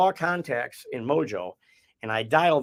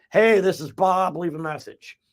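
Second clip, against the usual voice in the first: personable voicemail greeting; 5 semitones higher than usual. Acted. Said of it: "personable people who are like".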